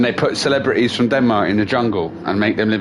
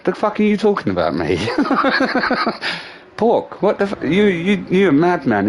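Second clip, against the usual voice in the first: much higher, fast, mock-outraged boss; imitating a boss who can't believe it; outraged disbelief; 9 semitones higher than usual. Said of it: "and he's like".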